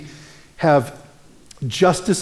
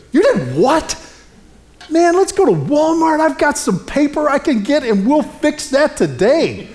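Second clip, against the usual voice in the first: voicing neighbor Mark; 11 semitones higher than usual. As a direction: pitch up in disbelief, then offer to help. Neighbor Mark voiced in a story.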